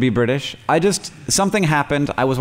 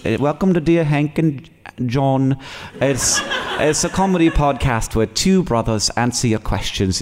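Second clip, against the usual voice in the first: a light posh British accent, slightly slowed podcast intro; mild posh British accent. Shown as a demonstration. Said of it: "mild, like, posh British accent".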